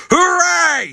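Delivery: high, loud cheer; triumphant shout. A narrator's reading. Yertle cheers atop his stack. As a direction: whoop in triumph. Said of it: "shouted Yertle".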